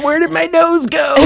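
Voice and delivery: high-pitched comic wail over a laugh; mock bewildered villain. Joking as Voldemort to a co-host, mock bewildered. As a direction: play a silly, baffled villain.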